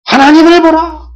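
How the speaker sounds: high, ringing proclamation; full-force shout. Shown as a demonstration. Preacher repeating the cry for congregation, full-force shout. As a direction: shout it out across the towns. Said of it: "이렇게 외치라니".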